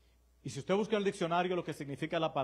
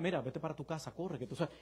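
soft quoted advice; 9 dB quieter than usual. Retold or imitated. Pastor voices his own gentle advice.

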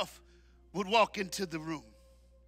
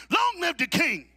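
loud, higher call for the crowd; 6 semitones higher, 5 dB louder than usual. Shown as a demonstration. Preacher calling to the men to repeat, loud call. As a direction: lead the chant. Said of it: "you repeat it after me".

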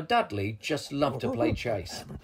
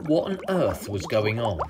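ordinary delivery, nothing marked

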